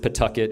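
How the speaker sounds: Pawtucket said as "P'tucket"; local pronunciation. Shown as a demonstration. Shop owner showing outsiders the local name, Pawtucket pronounced "P'tucket". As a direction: swallow the first vowel of Pawtucket, straight from P to "tucket". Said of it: "It's like a P apostrophe".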